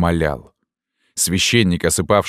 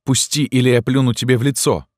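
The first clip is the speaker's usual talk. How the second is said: put-on higher, defiant girl's threat; girl threatening; 7 semitones higher than usual. A narrator's reading. Girl threatening the priest, defiant and raised. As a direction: spit out the threat.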